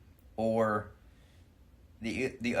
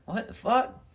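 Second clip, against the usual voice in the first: put-on shocked kids; 12 semitones higher than usual. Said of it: "And they're like".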